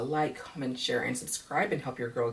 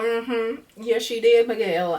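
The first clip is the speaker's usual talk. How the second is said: higher, louder "Yeah, she did, Miguel"; loud sassy agreement; 7 semitones higher, 5 dB louder, slower than usual. Retold or imitated. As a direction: agree loudly, full of sass. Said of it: "I was like".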